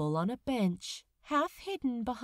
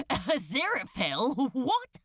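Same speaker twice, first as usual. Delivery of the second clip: grinning; 2 semitones higher, 4 dB louder than usual. A narrator's reading. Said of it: "grinning even as he".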